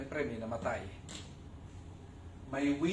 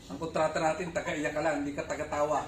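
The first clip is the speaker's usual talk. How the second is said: mock employer scolding; 5 dB louder than usual. Mock employer scolds hired mourners.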